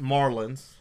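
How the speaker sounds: MARlins slowed, weight on the first syllable; stress on MAR. Real, not acted. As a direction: lean hard on the Mar in Marlins. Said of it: "emphasis on the Mar".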